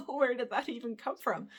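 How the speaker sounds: laughing while asking; baffled question broken by laughter; laughing in disbelief. Retold or imitated. Laughing retelling of getting pulled over.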